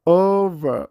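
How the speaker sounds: "Over" said without the r; British over, r silent; no final r. Shown as a demonstration. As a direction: drop the r at the end of "Over". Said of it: "እቲ ኣር ስለ ዘይድምጽዎ".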